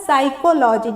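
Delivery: "साइकोलॉजी" opening straight on the s; silent P. Shown as a demonstration. Teacher repeating the pronunciation for learners, "साइकोलॉजी" with silent P. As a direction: say "साइकोलॉजी" with no p sound. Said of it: "इसका जो उच्चारण है वो क्या होता है?".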